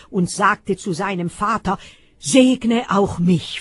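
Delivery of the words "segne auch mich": loud, slow and high outcry; anguished cry. Acted. Esau crying out to his father for a blessing. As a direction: cry it out, bitter and desperate. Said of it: "schrie er heftig auf".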